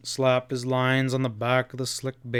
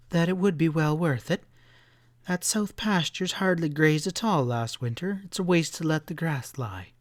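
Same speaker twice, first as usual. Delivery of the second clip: firm insistence; 5 semitones higher than usual. Acted. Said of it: "said Sally strongly".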